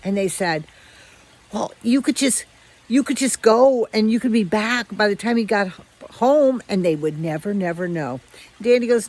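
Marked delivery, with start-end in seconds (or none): 1.5-6.6 coaxing strays. Retold or imitated.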